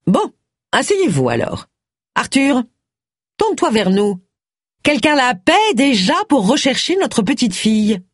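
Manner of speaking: high, nagging upstart wife; shrill Missus Toynbee. A narrator's reading. Missus Toynbee calling to her husband, high and nagging. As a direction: call across the room to the husband, high and shrill.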